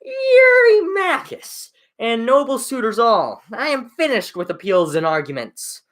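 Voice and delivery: put-on earnest, steady reading of a young prince; young prince's reply. Telemachus replies to the suitors, firm and earnest. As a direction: answer the suitors with resolve.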